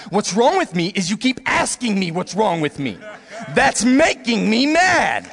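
mock-irritated denial through laughter; half-laughing, slow and grumpy. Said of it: "I'm like".

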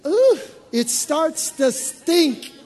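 preacher mocking old hurt's stink; disgusted. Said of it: "It's decomposing".

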